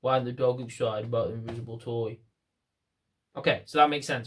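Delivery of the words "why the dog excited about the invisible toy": deadpan, no energy at all; flat unexcited demo. Shown as a demonstration. Trainer showing the wrong, dull energy with a toy. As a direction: say it flat like you couldn't care less. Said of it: "if I just stand there and go".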